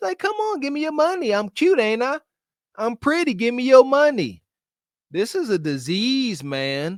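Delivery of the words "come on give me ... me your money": high, put-on, coy, cutesy-wootsy voice. Mocking a woman who thinks she's cutesy wootsy, mock cutesy coy voice. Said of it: "because she thinks she cutesy wootsy".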